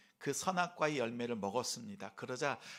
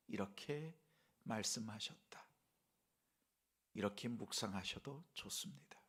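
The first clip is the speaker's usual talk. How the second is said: ordinary talk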